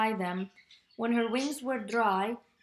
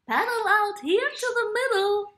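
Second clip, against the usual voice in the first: calling out; 10 semitones higher, 7 dB louder, faster than usual. Acted. Turtle calling across the pond.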